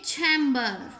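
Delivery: चैम्बर begun as chhem-, with a puff of air; aspirated chh. Shown as a demonstration. Teacher showing the English chhe sound, aspirated chh. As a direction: start चैम्बर on Urdu chhe. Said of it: "छे की आवाज़ निकालनी है".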